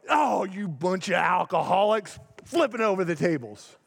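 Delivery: a hammed-up shout at the drinkers; mock angry outburst. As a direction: pretend rant, flipping tables in mock fury. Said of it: "Jesus didn't go".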